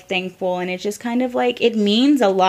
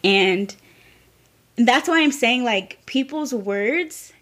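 crying; 2 semitones higher than usual. Real, not acted. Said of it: "Don't cry".

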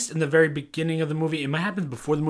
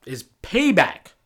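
countdown announcer; 4 semitones higher, 7 dB louder than usual. Acted. Countdown reveal of number one.

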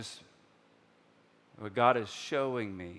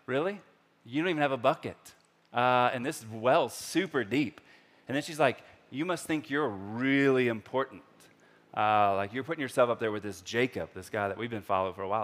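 teasing; 2 semitones higher, 6 dB louder than usual. Retold or imitated. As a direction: needle him about the bucket. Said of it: "she kinda teases him".

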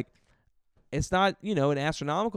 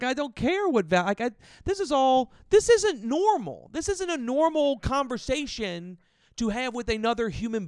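higher, louder, laughing through the words; laughing disbelief; 9 semitones higher, 3 dB louder than usual. Real, not acted. Comic recalls the customer while laughing in disbelief.

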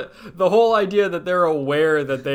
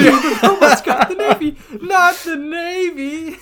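Squidward voice; 9 semitones higher, 3 dB louder, slower than usual. Retold or imitated. Quoting Squidward, slow.

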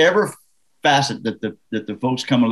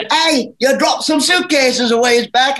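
calling out; 11 semitones higher than usual. Retold or imitated. Chasing guy calling to driver.

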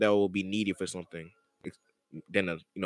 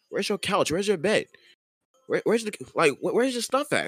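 mocking high complaining voice; 9 semitones higher than usual.

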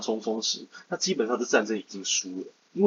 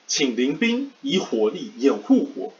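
cover me shout; 3 semitones higher, slower than usual. Retold or imitated. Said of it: "我这边来模仿一下两个人吼".

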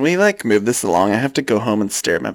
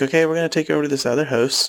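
1 Canadian agent; 5 semitones higher, faster than usual. Retold or imitated. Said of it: "She's like".

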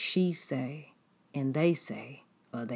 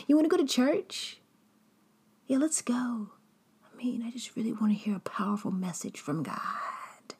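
much higher, eager whispered mock invitation; fake churchgoing friend; 8 semitones higher than usual. Betrayer inviting the victim to church, high fake eagerness.

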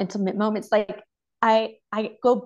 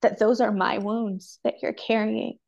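emotional; 2 semitones higher than usual. Real, not acted. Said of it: "it makes me emotional".

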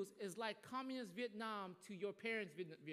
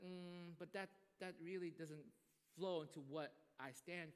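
soft refusal; 2 semitones lower, 5 dB quieter than usual. Retold or imitated.

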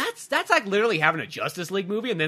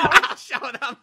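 Starscream impression; 5 semitones higher, 3 dB louder, much slower than usual. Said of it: "talks like Starscream".

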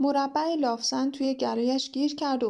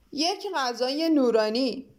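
slow, drawn-out call to the servants; mild bellow, stretching each word; roaring order; slower than usual. Acted. Bug summoning the waiters, a slow mock roar. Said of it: "نعره کشید".

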